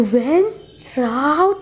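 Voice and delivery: slow stretched angry yell at Wencha; mock yell. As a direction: yell it slowly in fury. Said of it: "इतने ज़ोर से चिल्लाता है".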